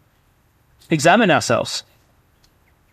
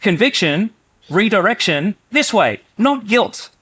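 gentle redirection; 6 semitones higher than usual. Acted. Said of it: "do you see the difference".

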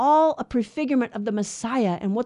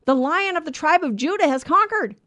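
lightly voiced angel, higher and louder; quoted angel; 5 semitones higher, 4 dB louder than usual. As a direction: proclaim it a little, as an angel's announcement. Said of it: "the angel says to him".

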